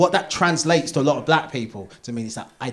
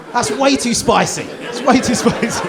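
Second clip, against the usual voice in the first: mock timid voice; 8 semitones higher, 6 dB louder, slower than usual. Mocking white people's caution.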